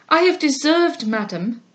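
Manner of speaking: put-on a young girl angry at her own folly; with spirit. A narrator's reading. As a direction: fire up at yourself. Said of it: "said she with spirit".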